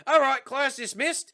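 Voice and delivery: high, loud, drawn-out mock announcement; hammed-up teacher dismissing class; teacher impression. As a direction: call out to the class in a put-on voice. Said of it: "The teacher's like".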